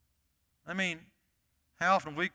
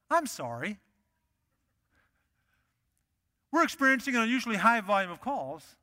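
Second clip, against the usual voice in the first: lightly mimicked hold recording; recorded phone voice; 2 semitones higher than usual. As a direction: say it like a canned phone message. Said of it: "a recorded voice on the line".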